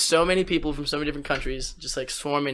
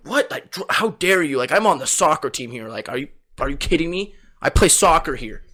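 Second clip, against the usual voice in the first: mock outrage. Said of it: "I'm like".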